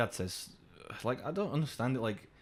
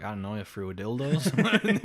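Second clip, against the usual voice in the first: clueless guess; 5 dB louder than usual. Acted. Americans guessing at British phrases, clueless guess. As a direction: act out a wild, baffled guess. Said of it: "And they were like".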